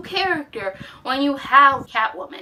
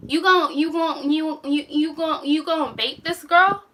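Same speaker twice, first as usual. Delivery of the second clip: incredulous stammer; 5 semitones higher than usual. Retold or imitated. Vlogger mocking a TV character, stammering in disbelief. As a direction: trip over the words in shock. Mocking her own reaction to scene.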